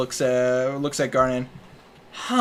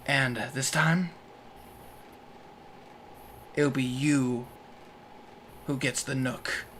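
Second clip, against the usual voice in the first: quiet menacing threat; 6 dB quieter than usual. Acted. Villain threatens softly, slowly.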